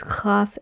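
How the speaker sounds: kaf said with a hard k and open a. Shown as a demonstration. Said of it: "and then there's kaf sofit".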